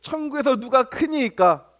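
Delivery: slow, measured Bible reading of the question; slow scripture reading. Shown as a demonstration. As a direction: read the verse slowly and evenly, like scripture. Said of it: "그때에 제자들이 예수께 나와 이르되".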